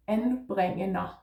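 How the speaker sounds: anbringender said the Danish way; Danish word anbringender. Shown as a demonstration. Teacher modelling anbringender for learners. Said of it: "And anbringender is".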